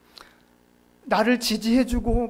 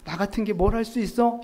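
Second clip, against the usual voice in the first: mock dejected sigh; 3 semitones lower than usual. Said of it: "낙심하는 거예요".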